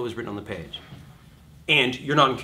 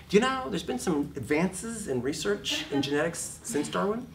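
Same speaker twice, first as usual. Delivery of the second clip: sarcastic; 6 semitones higher than usual. Retold or imitated. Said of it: "And I'm like".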